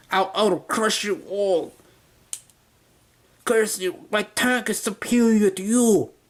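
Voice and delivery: failed fake German accent, pitched high. Voicing the German guy cursing the Autobots, failed German accent. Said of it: "my failed attempt at a German accent".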